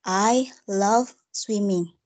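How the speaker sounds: slow demo stressing "love" and "swimming"; each word set apart, weight on "love" and "swimming"; stress on noun and verb. Shown as a demonstration. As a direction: press slowly on "love" and "swimming". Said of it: "I give the stress at noun and verb".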